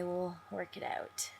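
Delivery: slow whisper to herself; whispered aside. Real, not acted. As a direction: breathe it out under your breath, reassuring yourself.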